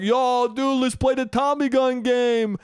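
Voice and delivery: loud, high, drawn-out bro yell; mock a rowdy drunk wannabe Italian; drunk dude. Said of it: "drunk motherfuckers ... Westchester Irish dudes".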